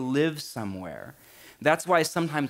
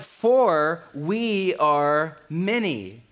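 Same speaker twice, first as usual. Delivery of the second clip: very slow, drawn out; slow ominous demon line; 2 semitones higher, 4 dB louder, much slower than usual. Acted. Preacher voicing the demon, very slow and drawn out. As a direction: stretch every word out ominously. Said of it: "He replied".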